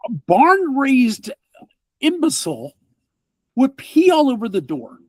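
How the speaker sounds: scornful grumble at the culprit; a fed-up man rants about the mess; indignant NPC. Acted. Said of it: "and he goes".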